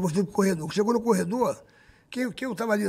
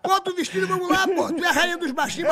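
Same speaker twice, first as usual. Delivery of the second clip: higher, laughing coaxing; pep talk; 5 semitones higher than usual. Retold or imitated. Serginho pushing Xuxa back on stage, high laughing pep talk. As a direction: hype her up, half joking. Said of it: "Eu falei".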